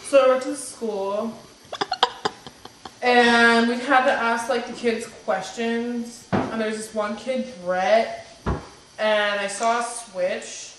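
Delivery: lightly voiced flat, plodding retelling; a hint of a dull boy's task-by-task story; imitating Jason's boring story, slow; mock Jason storytelling. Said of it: "this is how Jason would tell it".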